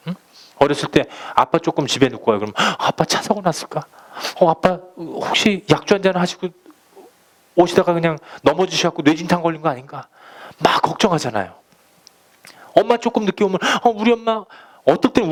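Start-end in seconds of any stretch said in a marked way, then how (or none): 2.6-10.1 put-on worried child. Child worrying about dad.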